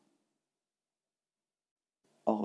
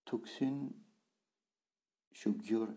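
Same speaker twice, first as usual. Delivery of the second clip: syllable by syllable; slower than usual. Shown as a demonstration. Teacher splits the phrase slowly.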